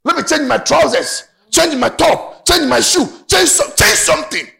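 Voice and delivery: hammed-up fussy man changing clothes; mock vain man. Preacher mimics a vain suitor, loud and fussy. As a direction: act out a man fretting over his looks. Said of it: "So he said".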